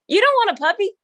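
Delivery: high-pitched mock astonishment; retold disbelief. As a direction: imitate someone aghast at the idea. Retelling Kobe's disbelief at the deal.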